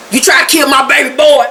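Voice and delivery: exclaimed accusation, acted out; mock outrage. Uncle Daddy confronting them with gun cocked, mock outrage.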